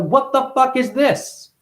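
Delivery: put-on baby's bewilderment. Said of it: "You're like".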